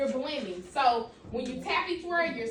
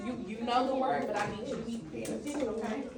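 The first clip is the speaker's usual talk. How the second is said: quiet reprimand; 6 semitones lower, 5 dB quieter than usual. Real, not acted. Teacher quietly corrects Adrian.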